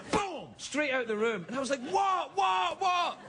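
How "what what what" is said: high, repeated, bewildered what; baffled calling out. Retold or imitated. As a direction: call after him, totally lost. Confused friend calling after him.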